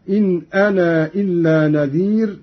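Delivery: "أنا" with its alif held long before "إلا"; separated madd. Shown as a demonstration. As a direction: recite "أنا" as anā, lengthened before the glottal stop. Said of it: "مدا منفصلا هكذا".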